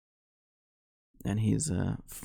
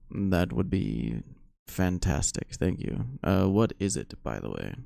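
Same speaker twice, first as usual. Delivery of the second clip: lightly voiced adventurer; 3 dB louder than usual. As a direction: answer as a measured, appreciative tavern guest. Voices the character Dendor replying.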